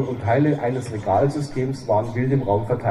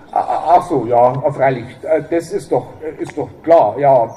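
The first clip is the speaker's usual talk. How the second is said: flustered stammer; 5 dB louder than usual. Acted.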